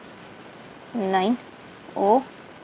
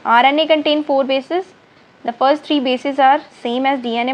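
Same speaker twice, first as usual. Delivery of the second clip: slow dictation; 3 semitones higher, much slower than usual. Acted. Dictating notes slowly in English.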